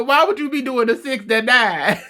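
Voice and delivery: laughing hard. Real, not acted. Host picturing the couple on the couch, laughing. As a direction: lose it halfway through the question. Cracking up retelling the scene.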